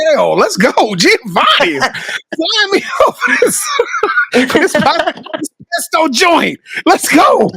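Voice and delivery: laughing, high-pitched hype yell; excited shouting. Retold or imitated. Hyped reaction to the pesto sandwich.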